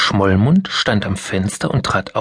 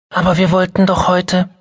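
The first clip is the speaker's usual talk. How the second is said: put-on higher little girl's protest, cut off; pleading child; 9 semitones higher, 3 dB louder than usual. Mia protesting to her mother, pleading. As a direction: whine it like a let-down child.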